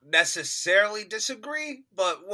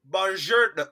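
lightly attempted Italian greeting, pitched up; Jeremy Irons; 4 semitones higher, 4 dB louder than usual. Podcaster mimics actor attempting the accent, a slightly raised greeting. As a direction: have a half-hearted go at Italian. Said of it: "Jeremy Irons was like".

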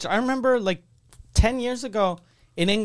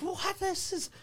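mock shock; 13 semitones higher, 8 dB quieter than usual. Mock shocked audience member.

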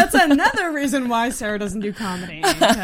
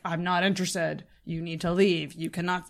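firm; 6 semitones lower, 6 dB quieter than usual. Retold or imitated. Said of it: "I wish I could just say".

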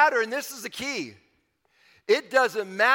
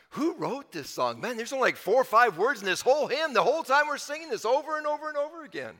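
imitating a kid's exasperated grumble, climbing higher; complaining kid; 5 semitones higher than usual. Preacher recalling his childhood boredom with a hymn, mock complaining. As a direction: build to a high, mock-fed-up complaint. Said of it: "I'm, I'm a kid".

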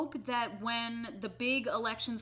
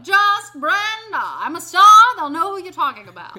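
high, loud diva character voice; silly clown; 8 semitones higher, 16 dB louder than usual. Pretend. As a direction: play a goofy self-proclaimed star. Brenda character.

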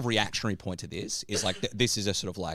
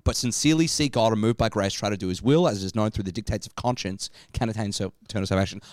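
formal reading. Shown as a demonstration. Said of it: "I just wanna read this part again".

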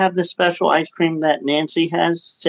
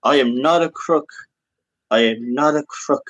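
lower, heavy Nixon denial; Nixon impression; 4 semitones lower than usual. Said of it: "I'm Richard M. Nixon".

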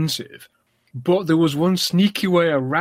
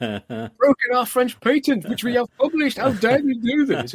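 put-on high, outraged French accent; indignant Frenchman, French accent; french chef; 9 semitones higher than usual. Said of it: "he says".

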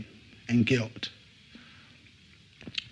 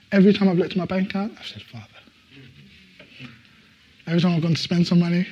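excited telling; 6 semitones higher, 6 dB louder, faster than usual. Real, not acted. Excited retelling of praying one word.

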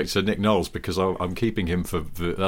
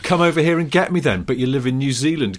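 loud, fast, higher taunting Noel voice; mock taunt; 6 semitones higher, 5 dB louder than usual. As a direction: jeer at him to come and get you, fast.

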